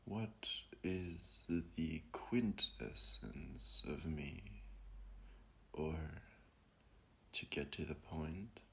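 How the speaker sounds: contemplative guide, long pauses between phrases; slowing to let each question sink in; guided meditation. Acted. Guiding listeners to ask who they are, meditative voice.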